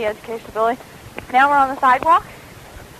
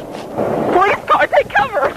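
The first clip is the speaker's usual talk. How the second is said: high urgent yell of alarm; shouted warning; 8 semitones higher, slower than usual. Real, not acted. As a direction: yell it out to warn the others. Kids running from police.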